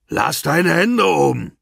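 a gunman bellowing a command. A narrator's reading. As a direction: roar the order from behind. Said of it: "brüllte Alex hinter ihnen".

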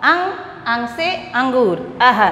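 slow sing-song letter-and-word recitation; measured primer reading; kindergarten alphabet drill. Shown as a demonstration. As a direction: chant it for a class to repeat, stretching the final words. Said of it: "हम ऐसे कब पढ़ते थे ये".

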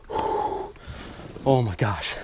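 slow breathy awe; breathless whisper. Real, not acted. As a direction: breathe it out in wonder. Awe holding the fish.

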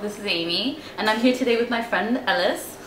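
light, shaky attempt at an English accent; amateur English accent. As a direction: try an English accent for a channel greeting. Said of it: "that is her English accent".

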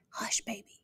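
soft, unvoiced hush baby; whisper. A narrator's reading. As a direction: breathe it like a gentle shush. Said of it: "Cal whispered".

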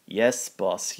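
yawning. Acted. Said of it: "yawned Kevin".

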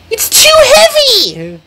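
very high strained wail; panicked cry. Acted. Jackie speeding with heavy freight, wailing in panic. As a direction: wail under the weight. Runaway engine in distress.

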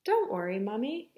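put-on mildly soothing storybook child; reassuring. Ava comforts her crumpled mother, mildly reassuring. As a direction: reassure simply, with little push. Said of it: "Ava reassured her".

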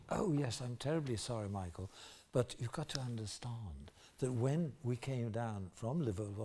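hushed, mock-refined London English; affected London accent. Liverpool actor apologising to Michael, affected London accent. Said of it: "this is my actual accent, this is how I talk now".

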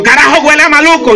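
put-on high old man grumbling at the smell; grandpa's high complaint. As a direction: whine it high like a fussy grandpa. Grandpa voiced in comic story.

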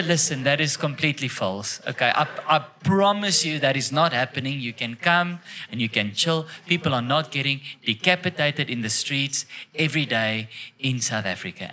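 low, measured reassuring voice; retold reassurance. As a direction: calmly talk down someone who is scared. Reassuring a scared woman, retold.

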